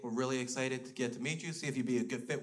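soft and sweet, professionally polite. Retold or imitated. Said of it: "She was real polite".

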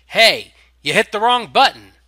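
snarling tiny rider. A narrator's reading. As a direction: taunt them as you zoom by. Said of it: "its miniature rider snarling".

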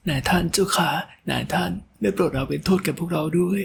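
high, breathless begging of frightened maids; trembling plea. A narrator's reading. Maids kneeling before their master, pleading in fear. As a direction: beg the master for mercy, voice quivering. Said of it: "ด้วยน้ำเสียงสั่นเครือ".

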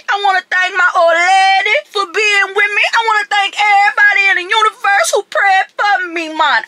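mock Jamaican acceptance speech; Jamaican accent. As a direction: thank everyone in a hammed-up Jamaican accent. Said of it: "from New Orleans accent to a Jamaican accent".

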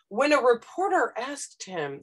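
stiff newspaper phrasing, slow; newspaper style. Retold or imitated. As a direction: read it like dry print journalism. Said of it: "New York Times style writing".

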